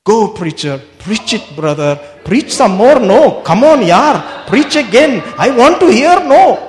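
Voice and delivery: playful congregation cheer building from plain to loud and high; mock cheering. Preacher playing his own congregation urging him on, building to a loud cheer. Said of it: "Hello, encourage me".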